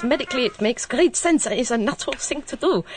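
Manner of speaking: light mock Austrian accent on the professor's quote; a half-hearted stab at an Austrian professor's accent; bad Austrian accent. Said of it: "maybe not with quite such a bad accent".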